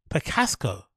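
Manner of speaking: Picasso echoed as "pi-KAS-ko"; mispronounced Picasso. Retold or imitated. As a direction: copy the slip, adding a k to Picasso. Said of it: "how you pronounce Picasso".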